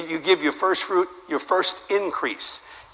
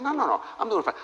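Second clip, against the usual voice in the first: high, playful protest of no need; mock modest refusal; 7 semitones higher, 4 dB quieter than usual. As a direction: wave it off in a high coy voice. Modestly refusing offered money.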